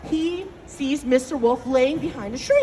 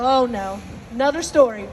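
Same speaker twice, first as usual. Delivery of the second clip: dreading groan; 5 semitones lower than usual. Retold or imitated. Children dread another story.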